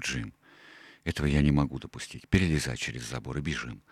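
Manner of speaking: quick and low, suddenly urgent; urgent, changed voice. Acted. Doctor urges Jim to flee, low urgent voice. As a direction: press him to escape now. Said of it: "уже совсем другим голосом".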